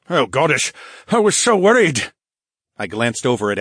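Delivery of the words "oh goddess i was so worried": high, louder rush of relief; relieved. Acted. Duke Phineas holding Linnea's hand, relieved. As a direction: pour out his worry at her side.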